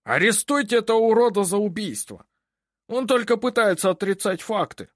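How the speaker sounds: the judge orders an arrest in fury; furious judge. A narrator's reading. Enraged judge demands arrest. (судья в ярости требует ареста)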